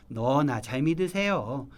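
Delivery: slow, drawn-out sarcastic retort; mocking brush-off. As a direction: stretch it out like a sceptical friend. 비꼬는 친구 반응을 되풀이. (길게 늘여 비꼬는 말투)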